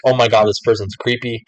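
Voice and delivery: a mild, slightly hushed creeped-out gasp. Retold or imitated. Customer unnerved by the worker, mild creeped-out tone. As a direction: lightly act someone put off by a stranger. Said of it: "Not like".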